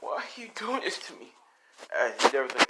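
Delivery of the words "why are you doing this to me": put-on high, soft child's plea; mock tearful plea. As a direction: plead small and high, lightly acting the tears. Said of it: "Deku's crying".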